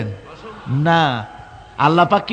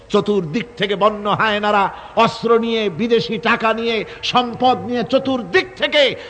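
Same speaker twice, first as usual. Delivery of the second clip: high, driving declamation; impassioned preaching; 6 semitones higher than usual. Real, not acted. Preacher warns crowd of attack from every side, impassioned preaching. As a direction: preach it in a high, sustained pitch.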